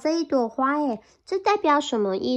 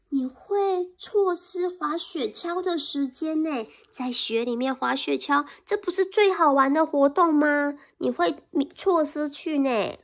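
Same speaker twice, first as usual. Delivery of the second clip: higher coaxing mouse voice; eager mouse; 3 semitones higher than usual. Acted. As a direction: tempt the bear like an excited little mouse.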